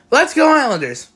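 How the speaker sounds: high, punchy rallying cry; fan cheer. Real, not acted. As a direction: cheer the team on. Fan cheer ending the report.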